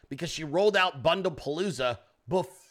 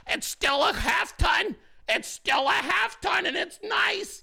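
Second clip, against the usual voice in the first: rising higher and higher, whiny defensive truck owner; mock defensive owner; 4 semitones higher than usual. Mimicking Hog defending his four-cylinder hybrid truck, whiny and rising. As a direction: get more defensive and squeakier with each excuse.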